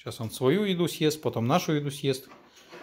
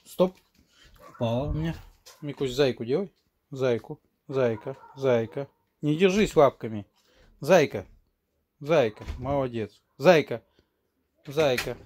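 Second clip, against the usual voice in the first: commanding a dog; 2 semitones higher, 4 dB louder than usual. Real, not acted. Training the dog tricks.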